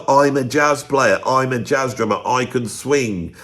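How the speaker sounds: slow, smug mock of a jazz snob; snobby jazz drummer. Mocking a snobby jazz drummer who plays that card, slow smug voice. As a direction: lightly sneer it like a jazzy snob. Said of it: "snobby types that plays that card".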